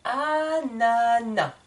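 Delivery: "ananas" slowly, ending on the vowel without the S; silent S. Shown as a demonstration. Teacher models the correct silent S. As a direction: drop the final S of "ananas", slow. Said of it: "j'ai mis une croix sur le S".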